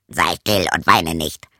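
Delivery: put-on a low frog comforting the girl. Frog tells crying princess to hush, low croaky voice.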